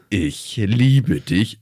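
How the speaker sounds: very slow, weighty "Ich liebe dich"; slow solemn vow. Retold or imitated. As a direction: speak it as if carving it in stone. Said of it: "ist es was für die Ewigkeit".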